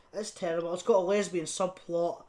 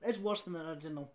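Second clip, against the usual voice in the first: hushed rushed verdict; 3 semitones lower, 8 dB quieter, much faster than usual. Shown as a demonstration. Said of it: "repeats it".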